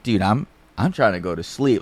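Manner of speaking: calm, even retold request. Roommate to intruders at the door, very calm. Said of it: "he says it very calm".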